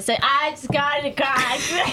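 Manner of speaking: hammed-up Southern accent. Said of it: "do me a Southern accent for Frankie".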